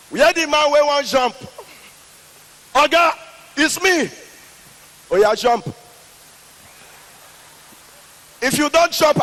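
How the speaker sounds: police inspector daring the man to jump; mocking inspector. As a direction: bark at him to go ahead and jump. Police inspector barking at jumper.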